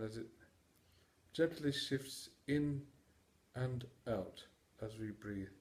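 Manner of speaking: calm, measured meditation delivery with long pauses; guided meditation. Acted. Mindfulness teacher guiding listeners to notice their breath, guided meditation. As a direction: guide them through the breath in unhurried, separate phrases.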